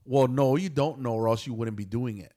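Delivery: imitating an impulsive comeback; blurted retort. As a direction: snap back without thinking, then settle. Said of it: "I blurted out".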